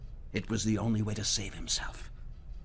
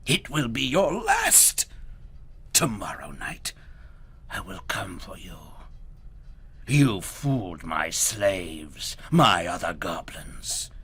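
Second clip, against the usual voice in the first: goblin king; 8 dB louder, slower than usual. Acted. Goblin king whispering threats to Herschel, menacing. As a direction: whisper a cold threat from far away.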